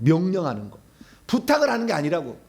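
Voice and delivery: ordinary delivery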